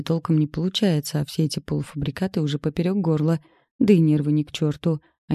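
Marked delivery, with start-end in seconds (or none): none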